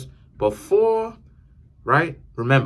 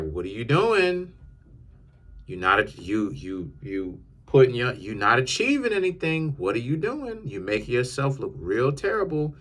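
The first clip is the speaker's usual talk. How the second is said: raised, incredulous mock challenge; mock exasperated question. Narrator mocking big talkers who do odd stuff, exasperated.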